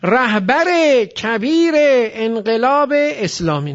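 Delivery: stretched ezafe joins through "رهبر کبیر انقلاب اسلامی"; linking kasra. Shown as a demonstration.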